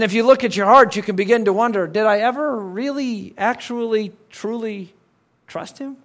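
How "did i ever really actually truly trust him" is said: soft doubting. Pretend. Believer doubting faith, inner question.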